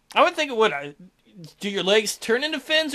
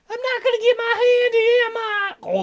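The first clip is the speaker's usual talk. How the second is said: much higher, slow crying wail; wailing fear; 14 semitones higher, 3 dB louder, slower than usual. Acted. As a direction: wail as he's dragged off. Lackey snatched, crying out.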